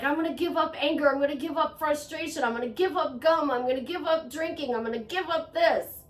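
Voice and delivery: quick, lightly mocking chant of vows; mocking eager resolutions. Poking fun at people making Lent vows, quick and mocking. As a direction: rattle off the promises like a mocked crowd. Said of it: "all these people are like".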